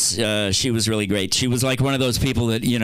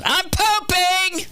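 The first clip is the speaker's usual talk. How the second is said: drawn-out shout; much slower than usual. Retold or imitated. Mom yelling from the bathroom mid-poop. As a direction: stretch it out like a cry for help.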